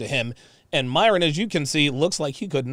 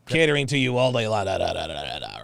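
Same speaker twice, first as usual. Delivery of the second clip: quick mocking parrot, fading into filler syllables; dismissive mock echo; 5 semitones lower, faster than usual. Mockingly echoes the clip's woman.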